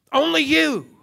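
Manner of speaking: "Only you" pitched high, then left hanging; stress on YOU. Real, not acted. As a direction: land "you" high and firm. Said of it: "The emphatic word is you".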